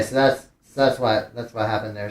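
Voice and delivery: stumbling restarts of the phrase; stuttering. Real, not acted. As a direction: trip over the opening words and restart. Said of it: "I'm stuttering".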